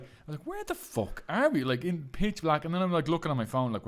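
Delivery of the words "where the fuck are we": high, quieter alarmed question; mild mock panic in the taxi. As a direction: panic under your breath. Lost in the dark.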